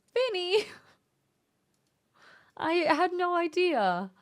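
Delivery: high, bright squeal of his name; a leaping excited rise on "Vinny!"; delighted cry. Real, not acted. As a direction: call out his name, moved and thrilled. Touched reaction to friend's message.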